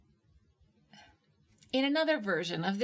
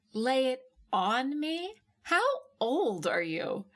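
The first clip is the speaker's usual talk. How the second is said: mocking disbelief; 5 semitones higher, 3 dB louder than usual. A narrator's reading. Mocking his phrase.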